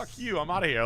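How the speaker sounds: high, squeaky mock outburst; mock angry kiss-off. Retelling telling off the flipper who snagged the house, high mock yell.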